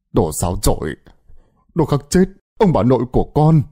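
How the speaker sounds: put-on a drunk father spitting blame at his daughter; drunk father ranting. A narrator's reading. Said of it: "hơi thở đầy hơi men". (ông bố say rượu chửi rủa con gái)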